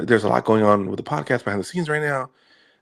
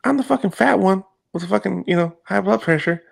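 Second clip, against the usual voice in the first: high, laughing mock rant about himself; indignant rant; 8 semitones higher than usual. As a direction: rant in disbelief, half laughing. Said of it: "Yeah, I was like".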